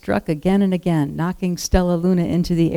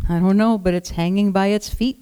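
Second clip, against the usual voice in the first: chirping; 3 semitones higher than usual. Acted. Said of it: "chirped Flitter".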